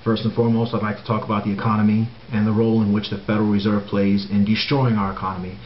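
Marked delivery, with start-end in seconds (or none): 4.4-4.9 "destroying" leaned on with weight; stress on destroying. Real, not acted. Vlogger denouncing the Fed, stressing "destroying". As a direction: press down hard on "destroying". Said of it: "And I stress the word destroying".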